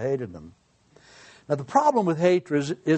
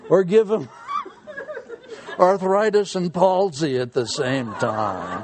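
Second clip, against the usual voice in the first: mock wicked prayer; 3 semitones higher than usual. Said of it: "Evil mind here".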